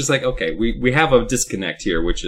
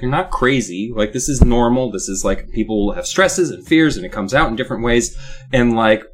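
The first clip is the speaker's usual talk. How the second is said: put-on North Dakota accent. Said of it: "talking like he's from North Dakota".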